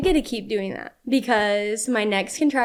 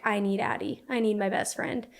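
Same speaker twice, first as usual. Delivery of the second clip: soft, quiet longing for a friend; emotional plea; 6 dB quieter than usual. Retold or imitated. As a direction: say it softly, almost tearful. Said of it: "started getting super emotional".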